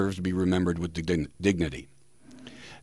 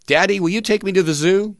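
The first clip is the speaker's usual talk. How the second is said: put-on kid asking; 10 semitones higher, 4 dB louder than usual. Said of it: "When I was a kid, I said to my father".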